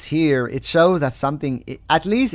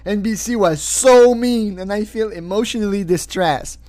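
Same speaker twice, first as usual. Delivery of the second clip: mock whiny plaintiff; 6 semitones higher, 5 dB louder than usual. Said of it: "He said".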